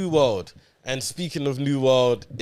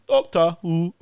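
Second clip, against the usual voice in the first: Dalek voice; 6 semitones higher, 4 dB louder, slower than usual. Pretend. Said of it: "Man's doing Dalek behavior".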